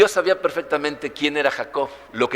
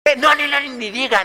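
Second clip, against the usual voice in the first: mock protest; 9 semitones higher than usual. Tuk refusing introduction, laughing.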